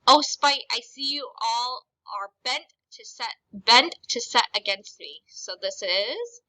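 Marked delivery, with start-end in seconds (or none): 0.1-5.2 upset. Shown as a demonstration.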